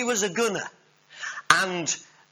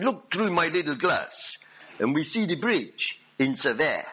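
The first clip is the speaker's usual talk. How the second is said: lightly hammed French accent; French general; 3 semitones higher than usual. General pointing out a bridge to his gunner, light French accent. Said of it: "he said".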